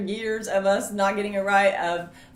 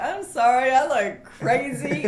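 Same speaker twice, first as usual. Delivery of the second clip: flustered apology; 6 semitones higher, 6 dB louder, slower than usual. Retold or imitated. Her flustered apology, retold.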